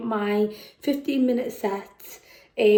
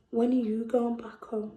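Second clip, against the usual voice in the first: softer, close-in menace; whispered; 6 dB quieter than usual. Acted. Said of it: "whispered in my ear".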